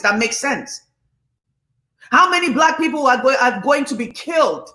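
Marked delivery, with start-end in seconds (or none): 2.1-4.7 impassioned, raised-voice demand; real heated outcry; passionate yelling. Real, not acted. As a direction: let passion push the voice up. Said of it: "I'm yelling".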